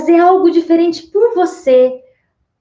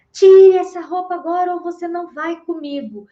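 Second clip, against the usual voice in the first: raised, bossy order about the clothes; harsh command; 5 semitones higher than usual. Retold or imitated. Controlling partner orders the wife to change clothes, harsh demand. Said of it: "a entonação, o jeito de falar".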